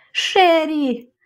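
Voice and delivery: high, drawn-out cry of her name falling at the end. A narrator's reading. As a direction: call out to your sister in alarm. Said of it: "заволав Бен". (заволати, високо й протяжно)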